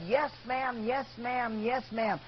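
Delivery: mocking, repeated yes ma'am with falling ends; sarcastic. Fed-up waitress mocking the customer, sarcastic. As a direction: throw his words back at him with a sneer. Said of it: "sarcastically looked at him".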